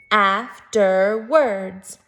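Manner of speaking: Afterwards drawn out in three separate chunks; syllable by syllable. Shown as a demonstration. Teacher demonstrating syllables to first graders, slow and chunked. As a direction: say Afterwards very slowly, AF, TER, WARDS. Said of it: "Three syllables".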